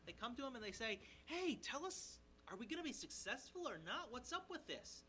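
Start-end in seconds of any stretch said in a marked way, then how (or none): 1.3-5.0 high-pitched, insistent asking; mock eager questioning. Spies asking the Levite about their journey, mock eager. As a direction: press for an answer in a raised voice. Voices spies pressing for answer.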